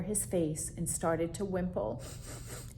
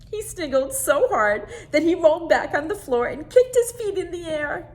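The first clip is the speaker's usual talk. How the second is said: higher, louder narration through giggles; laughing narration; 9 semitones higher, 11 dB louder than usual. A narrator's reading. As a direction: read it as if giggling along. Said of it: "started to sniggle".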